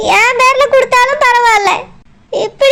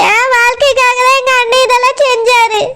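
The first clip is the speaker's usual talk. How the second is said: choking up as she pleads for her brother; begging through tears, voice catching; tearful plea. Acted. Sister begs the police to spare her brother, tearful.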